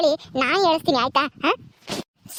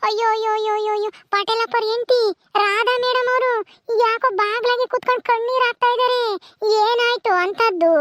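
nosy neighbour; 2 semitones higher than usual. Acted. Nosy neighbour spots Radha crying.

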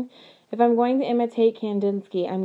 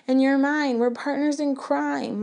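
near tears; 6 semitones higher than usual. A narrator's reading. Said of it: "My eyes fill with tears".

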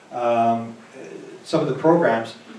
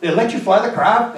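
incredulous; 8 semitones higher, 4 dB louder than usual. Retold or imitated. Disbelief at elderly pilot.

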